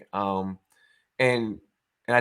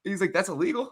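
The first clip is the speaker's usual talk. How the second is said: mock British surprise; 7 semitones higher than usual. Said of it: "he was like".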